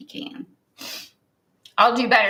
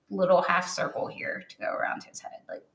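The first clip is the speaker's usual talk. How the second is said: whisper; 3 semitones lower, 7 dB quieter than usual. Real, not acted. Whispering while painting detail.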